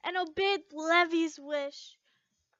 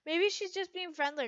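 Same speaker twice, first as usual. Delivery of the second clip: reassuring. Acted. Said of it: "Gray said in a reassuring voice".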